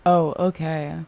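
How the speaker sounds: low, soft, matter-of-fact acknowledgement; straight-up, unfazed. Retold or imitated. Rule-following friend reacting to weed confession, straight-up unfazed. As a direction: imitate a friend's understated non-reaction. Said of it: "It was just straight up".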